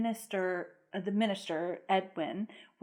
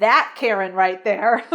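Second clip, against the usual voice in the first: louder, smiling and thrilled, rising at the end; excited daughter; 5 dB louder than usual. Retold or imitated. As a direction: say it grinning, all excited like the daughter. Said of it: "smiling, all excited".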